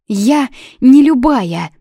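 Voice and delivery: narrated shout of protest, loud. A narrator's reading. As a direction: fling out each word, defiant. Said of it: "крикнула Юна".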